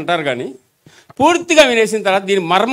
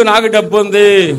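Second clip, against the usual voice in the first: proudly; slower than usual. Shown as a demonstration. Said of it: "మంచి గర్వంగా చెప్పొచ్చు".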